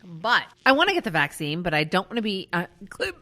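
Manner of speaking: talking through hiccups; hiccuping between words. Real, not acted. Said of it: "me hiccuping every five seconds".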